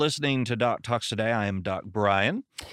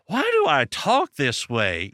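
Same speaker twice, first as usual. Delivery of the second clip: exasperated self-questioning; 4 semitones higher, 4 dB louder than usual. Retold or imitated. Pastor exasperated by own accent.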